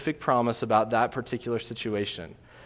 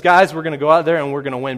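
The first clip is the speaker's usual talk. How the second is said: fast, louder, hammed-up general firing up the troops; mock pep talk; 2 semitones higher, 7 dB louder, faster than usual. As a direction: rattle it off like a locker-room rally. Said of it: "a general says".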